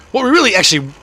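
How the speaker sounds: raspy voice cracks upward; voice cracking. Real, not acted. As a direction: voice breaks high mid-sentence. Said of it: "my, my voice".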